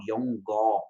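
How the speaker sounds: yongó with a G sound; yongó, G wrongly added; wrong version. Shown as a demonstration. Teacher showing the wrong way to students, pron. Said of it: "vai tá errado".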